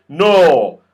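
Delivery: loud, slow, odd goblin voice; smug goblin. Acted. Goblin tells Joe the tree is theirs now, slow and smug. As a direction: lay claim to the tree, slowly and smugly.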